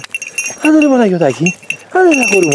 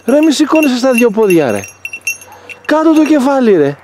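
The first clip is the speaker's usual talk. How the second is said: higher pleading instruction; urgent coaxing; 5 semitones higher than usual. Real, not acted. Owner instructing the bird, higher urgent coaxing. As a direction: urge him to keep his head down.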